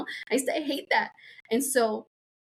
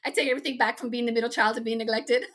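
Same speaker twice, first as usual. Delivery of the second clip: laughing; 3 semitones higher, faster than usual. Real, not acted. Jokes about being neglected.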